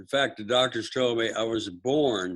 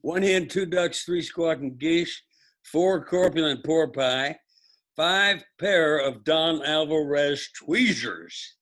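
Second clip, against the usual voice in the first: sing song rote recitation; 2 semitones higher than usual. Shown as a demonstration. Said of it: "Try doing the memory game".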